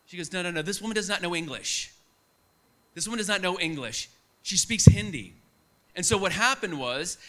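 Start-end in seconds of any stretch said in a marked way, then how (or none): 0.3-5.3 firm retold denial, ending on a louder "She speaks Hindi"; insist, then punch out "She speaks Hindi"; insistent correction. Retold insistent correction of mistaken man.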